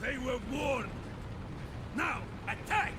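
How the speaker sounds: high, loud commanding yell; shouted attack order. Acted.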